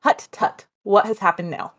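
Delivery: lightly voiced old Dutch grandmother, scolding; a hint of a stern old Dutch lady tutting at a servant. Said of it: "in his grandmother's voice and accent".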